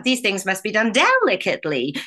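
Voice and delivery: line as the film witch says it; the Wicked Witch's famous line. Retold or imitated. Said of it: "one springs".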